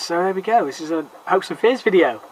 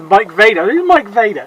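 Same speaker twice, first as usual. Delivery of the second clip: confused retelling; 5 semitones higher, 7 dB louder than usual. Retold or imitated. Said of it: "I said".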